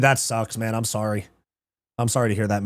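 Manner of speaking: ordinary delivery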